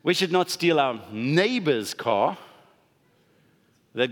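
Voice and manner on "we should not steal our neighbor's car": slow, "not" and "neighbor's" marked, rising; hint that a disliked man is no neighbor; stress on neighbor's. Shown as a demonstration. Preacher mocking a reinterpretation, weight on "neighbor's". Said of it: "you can highlight where you feel like the accent".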